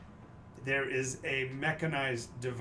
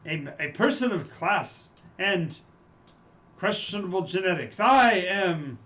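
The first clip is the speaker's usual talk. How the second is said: posh character voice; 5 semitones higher, 6 dB louder than usual. Acted. GM voices NPC Carlton.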